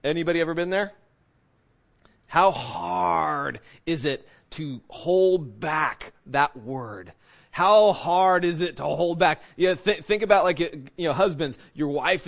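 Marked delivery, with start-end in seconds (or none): 2.3-9.4 drawn-out, weighty question; slow preacher's challenge; slow emphasis. Acted. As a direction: stretch every word of the question.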